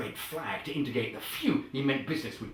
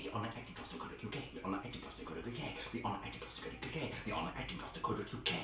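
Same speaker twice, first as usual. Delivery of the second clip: fast, soft rattled-off repetition; quickly; 12 dB quieter, faster than usual. Shown as a demonstration. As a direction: gabble it at speed, barely voiced. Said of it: "Say it quickly".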